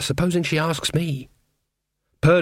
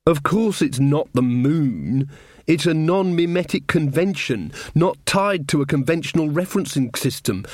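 haughty teacher; 3 semitones higher than usual. Acted. Diamanda corrects her coldly.

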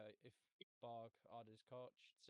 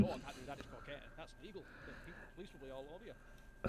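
voicing the monkey; 3 semitones higher, 10 dB louder than usual. Voicing monkey refusing cocaine.

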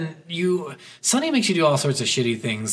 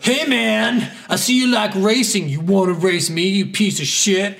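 mock tough-guy challenge; 4 semitones higher than usual. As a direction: ham up the street racer's dare. Mocking player character's challenge.

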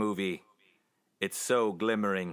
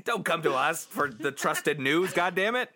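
mock rant; 4 semitones higher than usual. Scolding the podcast listeners in a mock angry rant.

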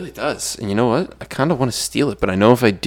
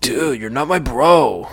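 slow, higher mock drawl; mock valley voice; 4 semitones higher, slower than usual. Teasing his co-host, slow high mock drawl. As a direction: drag it out like a disgusted teen. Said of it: "talk like that".

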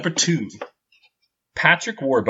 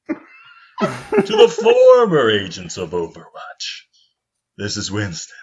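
Winston demo reading; slower than usual. Shown as a demonstration. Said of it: "I was hoping it was gonna sound like".

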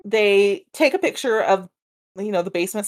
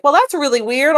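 lightly put-on country accent; 4 dB louder than usual. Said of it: "That sounded really country accent".

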